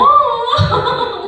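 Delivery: loud, high comic wail; hammed-up crying sound; mock bawling. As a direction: imitate bursting into tears. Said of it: "막 나도 울었어요".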